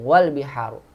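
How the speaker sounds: "wal biharu" run together as one; joined reading. Shown as a demonstration. Teacher showing the joining rule, "wal biharu" joined. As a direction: slide wa straight into l in "wal biharu".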